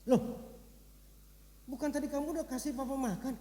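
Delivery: mild acted surprise, voice jumping up; puzzled old father caught off guard; startled father.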